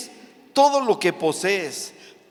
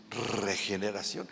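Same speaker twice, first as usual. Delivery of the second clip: puzzled disciples; 8 semitones lower, 10 dB quieter than usual. Retold or imitated. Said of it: "Y los discípulos".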